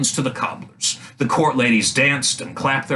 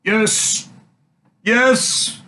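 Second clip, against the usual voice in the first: emperor's voice; 10 semitones higher than usual. A narrator's reading. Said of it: "said the emperor".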